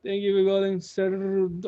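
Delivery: high, far, scared phone greeting; nervous phone greeting. Retold or imitated. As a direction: stammer it out nervously. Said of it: "I was scared of shaking".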